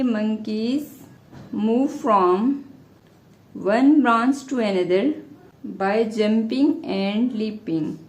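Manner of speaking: phrase-by-phrase dictation; dictating. Real, not acted. Teacher telling students what to write, dictating in pieces. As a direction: leave long gaps between short phrases.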